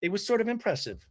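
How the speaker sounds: mildly snooty imitation. Heather comments on Jen's loudness in talking head, lightly snooty. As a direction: say it with understated haughty surprise. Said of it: "all snooty".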